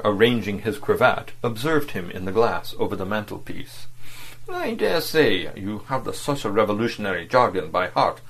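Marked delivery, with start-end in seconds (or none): 4.5-8.2 contemptuous. Acted. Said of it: "he said contemptuously".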